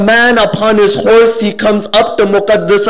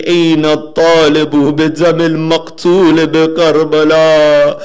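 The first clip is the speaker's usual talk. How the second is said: dua recitation. Shown as a demonstration. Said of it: "we say".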